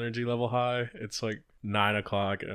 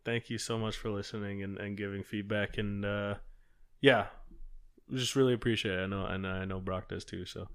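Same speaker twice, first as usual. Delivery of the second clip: giggly prank whisper; 3 semitones lower, 6 dB quieter than usual. Real, not acted. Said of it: "Me just whispering into the mic?".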